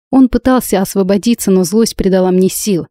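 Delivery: ordinary delivery, nothing marked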